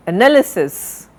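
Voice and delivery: "Analysis" as uh-NAL-uh-sis; stress on second syllable. Shown as a demonstration. Teacher modelling the right form, "Analysis" stressed on NAL. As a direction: hit "nal" in "Analysis" and fall away. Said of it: "not analysis".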